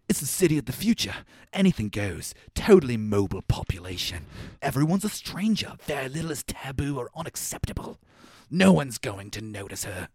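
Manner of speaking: stiff wooden line reading; flat, lifeless movie speech; cardboard cutout delivery. Retold or imitated. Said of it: "He delivers it like he's a cardboard cutout".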